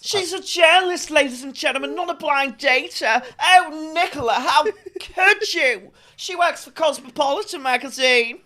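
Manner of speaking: high, loud impression of a singer and TV presenter; impersonated presenter voice. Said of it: "an impression".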